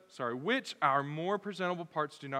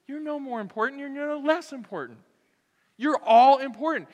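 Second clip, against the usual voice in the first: emphatic Paul; 9 semitones higher, 8 dB louder than usual. Retold or imitated. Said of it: "Paul just goes".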